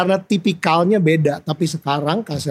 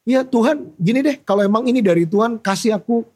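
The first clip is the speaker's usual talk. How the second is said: higher, insistent bargaining with God; stubborn retold prayer; 4 semitones higher than usual. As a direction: demand a sign, mock stubborn.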